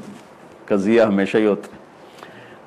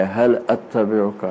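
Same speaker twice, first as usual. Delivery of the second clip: softer, slow, deeply humble asking; bow your voice down as a humble student; humble plea; 2 semitones lower, 5 dB quieter, much slower than usual. Shown as a demonstration. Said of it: "تواضع کی انتہا ہے".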